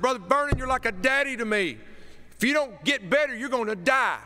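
high, loud, pleading cry; pleading Wooster voice. Retold or imitated. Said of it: "In my best Wooster voice".

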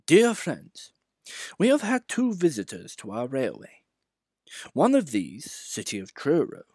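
lightly voiced stout official reading a letter; pompous boss reading his foreword; Fat Controller's letter.

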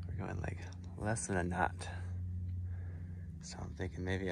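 hushed whisper, voice dropped right down; soft unvoiced whisper on a calm morning. Real, not acted. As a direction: whisper it like you don't want to wake anyone. Sailing slowly, voice drops to whisper.

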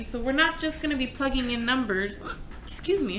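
hiccuping mid-sentence; talking through the hiccups. Real, not acted. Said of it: "I have the hiccups".

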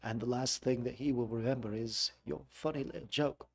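shadowing a soft menacing Londoner; softly menacing Londoner; London gangster accent. Retold or imitated. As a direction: copy the quiet threat in a London accent. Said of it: "the types of things that we're looking for".

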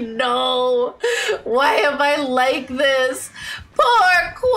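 slow, half-crying laugh at herself; laughing despair. Retold or imitated. Streamer mock-wailing at her own name slip, laughing cry. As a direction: whine it through laughter, mock anguish. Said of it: "I was like".

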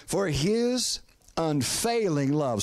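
slow, deliberate stress on "unfailing"; preacher slowing right down to underline "unfailing"; emphasis on UNFAILING. Real, not acted. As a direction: draw out "unfailing" so it sinks in. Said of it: "I want to emphasize that word unfailing".

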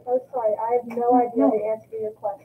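loud, curt "sorry, no idea"; blunt loud apology. Acted. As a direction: say it bluntly, a bit too loud. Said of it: "But in a kinder voice".

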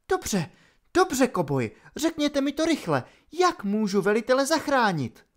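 begging for the answer fast; urgent young captain. A narrator's reading. Holly urgent, pleading with Opal. (naléhavě, zoufale, vyšším hlasem)

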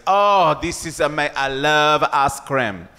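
put-on Manu's French accent. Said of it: "He goes".

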